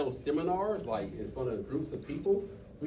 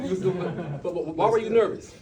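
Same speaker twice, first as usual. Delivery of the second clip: laughing, louder question; 2 semitones higher, 5 dB louder than usual. Real, not acted. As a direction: ask it through laughter.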